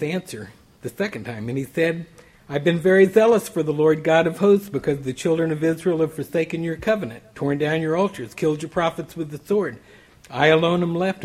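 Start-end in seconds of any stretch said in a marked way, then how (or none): 2.5-11.2 louder, pressing Elijah's grievance to God; a preacher voicing Elijah's fervent lament; impassioned complaint. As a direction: pour out the protest with rising force. Elijah repeats his complaint.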